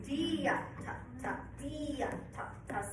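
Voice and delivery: teacher demonstrating a leaned "Dia" for the band; leaning on the slur. Shown as a demonstration. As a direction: show the lean on "Dia" into the slur. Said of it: "I'm leaning on that slur".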